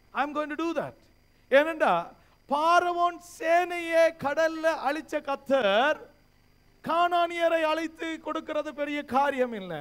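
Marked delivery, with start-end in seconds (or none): 1.5-9.7 raised, emphatic sermon delivery; forceful pulpit proclamation; preaching. Real, not acted. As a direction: preach it out with conviction.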